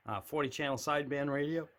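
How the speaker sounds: a catch in the throat mid-phrase; throat glitch. Real, not acted. Collector listing his radios, throat catching. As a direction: voice snags in the throat. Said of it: "whatever my throat just did".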